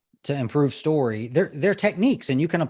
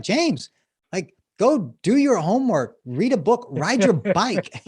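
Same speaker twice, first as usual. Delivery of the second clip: higher, louder scolding mom; mock motherly bark; 6 semitones higher, 4 dB louder, slower than usual. Mother tired of her son in the kitchen, mock barking. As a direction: bark orders like a fed-up mother. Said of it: "she kind of barks at him".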